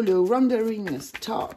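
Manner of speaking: slow, hammed-up English accent on "Wandering Star Tarot"; a playful, slow English-accented brand name; mock English accent. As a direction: put on a jokey English accent for the deck name. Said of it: "avec mon super accent".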